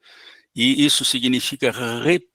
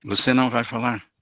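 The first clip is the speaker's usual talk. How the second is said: calm low tone. Shown as a demonstration. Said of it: "esse é o tom. Um tom baixo".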